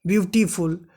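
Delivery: "वंडरफुल, ब्यूटीफुल" stretched out slowly; drawn-out word. Shown as a demonstration. Teacher showing students words that stretch when spoken, drawn out. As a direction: draw "वंडरफुल" and "ब्यूटीफुल" out long, part by part. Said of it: "ये लंबा खींच रहे हैं सब".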